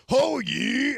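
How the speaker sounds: high, loud shop greeting; shouted greeting. Retold or imitated. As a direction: call it out to the customer. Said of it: "And you'd be like".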